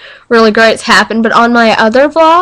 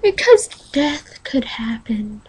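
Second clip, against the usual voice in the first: grim deadpan; 3 semitones higher, 7 dB quieter, slower than usual. Retold or imitated. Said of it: "I'm like".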